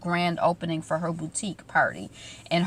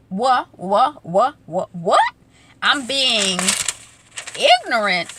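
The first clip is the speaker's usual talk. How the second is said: stammered, louder incredulous "what"s; mock disbelief; 3 semitones higher, 4 dB louder, slower than usual. Amara reacting to being called ignorant, mock disbelief. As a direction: act out being stunned by an insult. Acting out Amara's offended reply.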